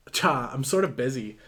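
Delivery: put-on light Valley Girl scoff; dismissive, lightly put-on Valley Girl. Ruth brushes Benny off, mild Valley Girl voice. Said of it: "Oh, Valley Girl voice".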